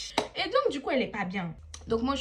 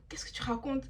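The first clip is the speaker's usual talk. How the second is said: baffled whisper; 2 semitones higher, 6 dB quieter than usual. Retold or imitated. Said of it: "je suis là en mode".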